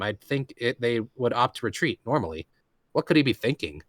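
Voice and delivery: steady first-person reading; story narration. Acted. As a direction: read it like a novel's narrator. Reads novel narration aloud.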